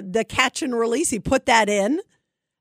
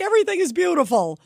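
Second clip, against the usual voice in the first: mock straight face; 4 semitones higher, faster than usual. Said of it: "saying it with a straight face".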